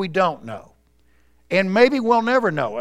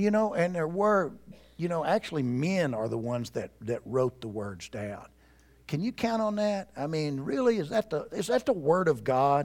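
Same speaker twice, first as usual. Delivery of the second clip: low, very soft whisper. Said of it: "You see, he's whispering".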